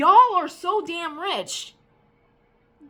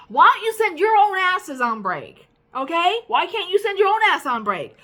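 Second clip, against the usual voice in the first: louder, higher, fed-up demand; angry rant; 4 semitones higher, 4 dB louder than usual. Real, not acted. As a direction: let the boss have it, real anger. Ranting at managers about breaks.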